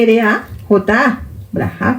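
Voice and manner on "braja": "braja" with the stress on the final A, bra-JA; "braja" stressed on the final syllable, JA; Hebrew word said carefully. Shown as a demonstration. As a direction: say "braja" slowly, leaning on the last A. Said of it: "con tilde en la A".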